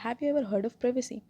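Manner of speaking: slow, indignant demand; angry question. Acted. Glindon demanding privacy from Killian, slow and indignant. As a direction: hurl the question at him slowly. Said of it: "anger से पूछा".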